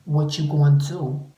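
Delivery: brash YouTube comeback cry; sassy shout. Real, not acted. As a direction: announce it with swagger. Loud sassy announcement.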